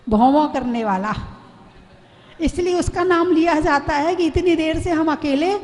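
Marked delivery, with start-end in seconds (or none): 4.3-5.5 angry wife. Retold or imitated. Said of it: "पत्नी को और गुस्सा आया".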